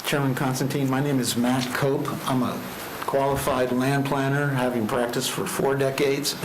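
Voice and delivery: muffled behind a mask; speaking through a face mask. Real, not acted. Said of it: "hear me through my mask".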